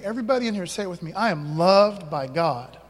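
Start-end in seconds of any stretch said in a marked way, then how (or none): 1.1-2.8 slow call-and-response line. Shown as a demonstration.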